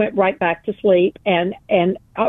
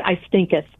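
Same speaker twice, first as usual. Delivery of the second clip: mock-archaic stinketh. Shown as a demonstration. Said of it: "That's exactly the way I said it".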